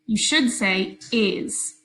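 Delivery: "is" said slowly and clearly; slow model sound. Shown as a demonstration. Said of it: "What does the suffix E S sound like".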